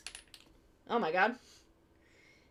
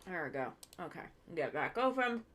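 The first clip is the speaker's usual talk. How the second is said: talking around a paintbrush; mouth full; 4 semitones lower, faster than usual. Real, not acted. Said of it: "I have paintbrush in my mouth".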